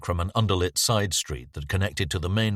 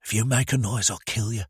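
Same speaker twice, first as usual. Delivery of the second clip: rasping threat; 4 semitones higher than usual. Acted. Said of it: "rasped in her ear".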